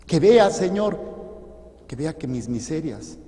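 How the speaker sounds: preacher praying aloud, fervent; fervent prayer. Real, not acted. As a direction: beg God with all your heart.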